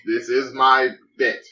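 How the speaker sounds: Jarl voice. Acted. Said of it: "This is not a bit if it keeps going".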